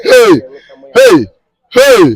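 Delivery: excited high cheering calls. Real, not acted. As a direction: cheer him on to the finish. Cheering the drinker on.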